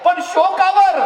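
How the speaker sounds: high, loud pleading command; loud high urgent plea. Acted. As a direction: beg her loudly to stop weeping. Raje urging mother to stop grieving.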